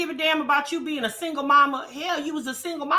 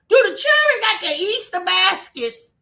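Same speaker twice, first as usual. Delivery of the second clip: higher, louder, scolding question; loud insistent repeat; 4 semitones higher, 5 dB louder than usual. Real, not acted. Asking a mother about her kids on Easter, loud and insistent. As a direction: demand it loudly, pitch raised.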